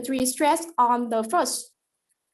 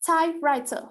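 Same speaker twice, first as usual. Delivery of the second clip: typewriter with TYPE higher and stronger; stress on first element; 3 semitones higher than usual. Shown as a demonstration. Student demonstrating a compound noun, stress on TYPE in typewriter. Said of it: "the stress go on the first element".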